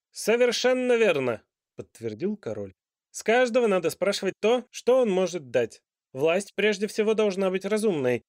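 loud, high royal argument; a monarch proving his point grandly; lecturing king. A narrator's reading. King's voice.

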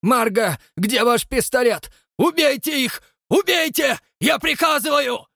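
very high, loud screaming command; frenzied order. Acted. Father screaming at Marga to shoot them.

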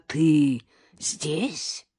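slow, drawn-out astonished question; amazed. A narrator's reading. Karina to the mother-in-law she didn't expect, amazed. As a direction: stretch the words out in amazement. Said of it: "изумлённо выдохнула Карина".

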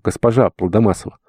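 plain reading voice

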